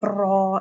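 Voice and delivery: را with a heavy, multi-trill r; over-roll the r in را; wrong raa. Shown as a demonstration. Teacher repeats the wrong را for students. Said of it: "اس طرح سے نہیں پڑھنا".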